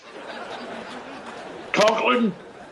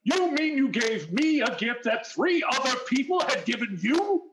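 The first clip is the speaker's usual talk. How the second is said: furious accusing blast, rising at the end; angry shout; 4 semitones higher, 6 dB quieter than usual. Acted. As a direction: bellow it at the culprit. Stone furious at the regift.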